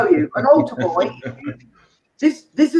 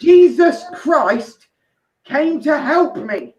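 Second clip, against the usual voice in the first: slow, raised mock revelation; milk the name like a miracle; mock awe; 5 semitones higher, slower than usual.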